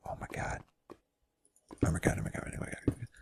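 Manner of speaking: frantic whispered OMGs; hushed, voiceless freak-out; whispered panic. Retold or imitated. Retold silent panic beside the girl.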